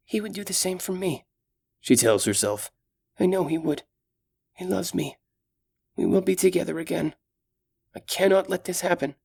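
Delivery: put-on gentle, caring young elf; young elf woman. Solana to herself.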